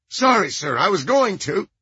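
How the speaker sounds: high-pitched, nasal, nervous; eager and jittery, high. A narrator's reading. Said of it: "High-pitched, nasal voice".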